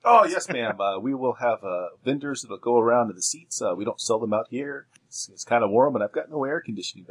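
lightly voiced box-office attendant, exclaimed opening; ticket seller. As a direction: answer a customer as the ticket man.

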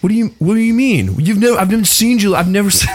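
panicked husband, voice jumping high; surprisingly high voice. Acted. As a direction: shoot up high in worried disbelief. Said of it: "why did I sound like this?".

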